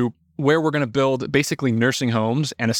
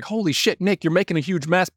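imitating a startled dad, higher; half-mocking alarmed father, pitched up; 5 semitones higher than usual. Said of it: "he's like".

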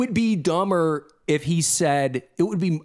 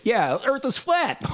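higher, slow dopey claim; drawn-out mock conviction, pitched up; mock flat-earther; 6 semitones higher than usual. Host mimicking the flat-earth bassist, slow mock claim.

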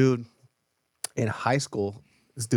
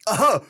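loud, high fake cough; mock cover-up cough; 9 semitones higher, 6 dB louder than usual. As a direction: cough pointedly, as if masking a noise. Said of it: "tries to cover it up with the cough".

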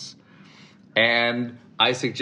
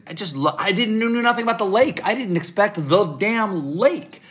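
higher, wonder-struck telling; a touch of disbelief; amazed; 11 semitones higher, 3 dB louder than usual. Real, not acted. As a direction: still astonished at the lake. Astonished at Chicago's lake.

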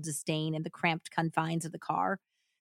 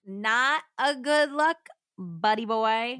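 higher, slow, teasing tone; mocking scolding; 4 semitones higher, 4 dB louder, slower than usual. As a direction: wag a finger at him. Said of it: "echoing co-host".

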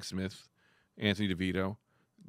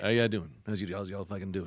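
lightly put-on podcast host greeting; 4 semitones lower than usual. Shown as a demonstration. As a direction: greet listeners in a slightly lowered voice. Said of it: "this is my podcast voice".

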